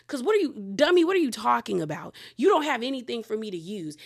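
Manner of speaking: loud, high indignant snap at him; exasperated scolding; mock outrage. Outraged retort to True.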